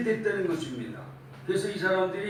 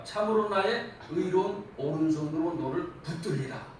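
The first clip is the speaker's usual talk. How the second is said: forceful preaching. Acted. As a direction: proclaim it to the congregation.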